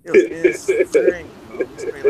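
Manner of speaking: loud, slow, drawn-out disbelief; excited outburst. Real, not acted. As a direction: let it burst out as you relive a wild moment. Recalling a wild fan encounter.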